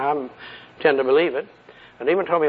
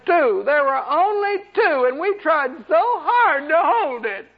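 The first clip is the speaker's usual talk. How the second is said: much higher, slow pitiful imp voice; high, slow demon lament with a laugh breaking through; mock wailing demon; 13 semitones higher, slower than usual. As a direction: whine it out like a defeated demon. Preacher voices a frightened demon.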